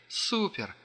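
high thrilled cry. A narrator's reading. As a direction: squeal with delight. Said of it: "смеялась девушка".

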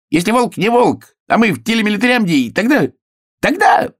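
high excited hare, climbing at the end; крик. A narrator's reading. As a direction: cry out high, building to the last word. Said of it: "крикнул". (высокий крик зайца)

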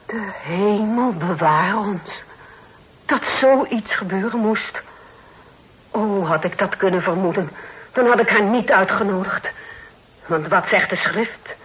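high, slow scandalised preaching of scripture; shocked pious aunt. Acted. Aunt appalled that her guest is Catholic, preaching. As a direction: recoil in horror, then quote the Bible at her.

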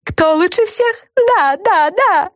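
high, self-satisfied cheer; boastful fairy. A narrator's reading. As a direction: cheer for yourself, smug. Fran cheers herself on.

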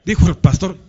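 usual speaking voice

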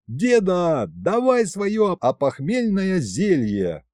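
high, eager plea; urgent demand. A narrator's reading. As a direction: press grandpa for it, drawing out the words. Urgent demand after the yell. (требовательно, высоким голосом)

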